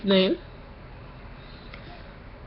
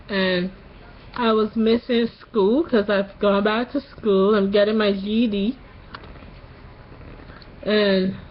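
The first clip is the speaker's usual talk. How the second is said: sore-throat voice after tonsil surgery; post-surgery voice. Real, not acted. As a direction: talk like your tonsils just came out. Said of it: "you notice something about my voice".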